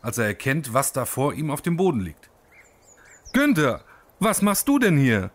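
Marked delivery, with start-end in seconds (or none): 3.3-5.3 startled and pitched higher; horrified. Acted. Uwe the lizard startled by the snake, mildly horrified. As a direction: lizard jolted awake in mild storybook alarm. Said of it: "fragt Uwe entsetzt".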